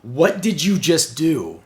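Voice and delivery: slow, emphatic mock outrage; retold freak-out. Reviewer voices Zarana catching the button press, mildly freaked out. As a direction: demand it slowly, imitating someone freaking out. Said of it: "she freaks out".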